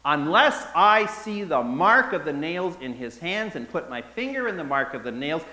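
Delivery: a touch of Thomas digging in; a hint of stubborn Thomas. Thomas refusing the disciples, lightly voiced stubborn. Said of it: "a direct quote from the gospel".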